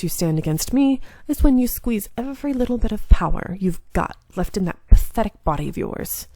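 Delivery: a lightly voiced sneering enemy taunting; a hint of a cocky swordsman mocking his foe; mocking villain. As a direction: taunt him with smug confidence.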